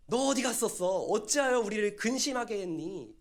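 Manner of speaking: high, loud parental telling-off; scolding parent. Acted. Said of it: "하면서 이렇게 꾸짖으면".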